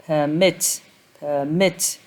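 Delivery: "permit" stressed on MIT; stress on second syllable. Shown as a demonstration. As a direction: say "permit" as per-MIT, weight on the end. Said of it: "stress is on the second syllable".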